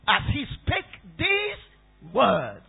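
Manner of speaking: slow down and stretch "these"; drawn-out "these", set apart before "words"; stress on THESE. Real, not acted. Preacher singles out the words.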